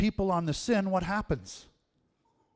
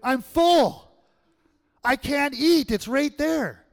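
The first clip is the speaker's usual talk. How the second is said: much higher and louder, hammed-up desperation; desperate plea; 11 semitones higher, 10 dB louder than usual. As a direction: plead with grandma, food up to the throat. Grandson pleading, too stuffed.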